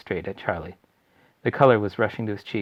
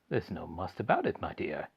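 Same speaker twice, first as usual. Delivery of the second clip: gentle; 3 semitones lower, 6 dB quieter than usual. Acted. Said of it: "Mister Bucket said gently".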